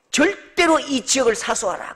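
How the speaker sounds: firm order, mildly acted; retold military command. Preacher retelling orders given to the company, firm command. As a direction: deliver it as a retold army order. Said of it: "그렇게 명령이 떨어졌습니다".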